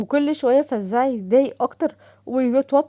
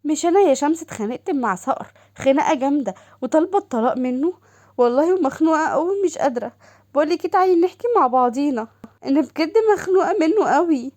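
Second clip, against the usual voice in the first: higher, eager sister calling; sister's voice; 4 semitones higher than usual. Acted. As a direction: gush over her sister on the phone. Doha complains of husband. (صوت أخت متلهفة أعلى)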